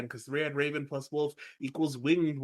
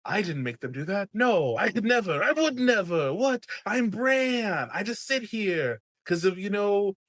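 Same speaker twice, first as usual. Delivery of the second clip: mock innocent Bran; 6 semitones higher than usual. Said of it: "He's like".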